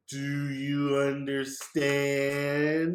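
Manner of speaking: slow, drawn out talking down; patronizing slow question; condescending Patrick. Retold or imitated. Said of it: "Patrick talking to Sandy like she's dumb".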